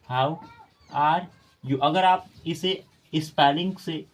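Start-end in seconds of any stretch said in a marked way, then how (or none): 0.1-1.8 slow word by word. Shown as a demonstration. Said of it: "जैसे मैं दे रहा हूँ".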